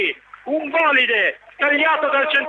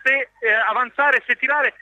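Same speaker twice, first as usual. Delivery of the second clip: excited near-miss call; 4 semitones higher than usual. Real, not acted. Occasione del tre a zero.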